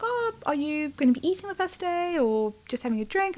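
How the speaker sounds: retold waiter. Retold waiter approaching her.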